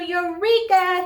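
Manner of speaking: high, loud, slow exclamation; triumphant eureka; shouted eureka. Acted. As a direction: shout it with a sudden idea. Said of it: "he shouted".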